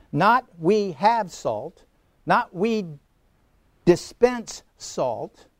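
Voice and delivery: slow, with "have" and "dispense" set apart; contrastive stress. Real, not acted. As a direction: pause before "dispense", stretching it deliberately. Rejected wordings set against are.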